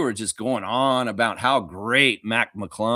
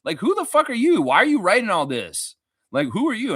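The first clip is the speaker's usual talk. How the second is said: mock baffled outsider; 5 semitones higher than usual. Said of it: "will come in and be like".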